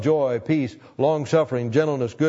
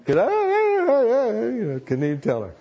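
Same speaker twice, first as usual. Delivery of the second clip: choked up; 10 semitones higher than usual. Retold or imitated. Too broken up to speak.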